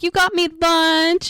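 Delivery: high-pitched excited sister voice; gush, pitched well up; mock delight. Sister acts thrilled at lunch.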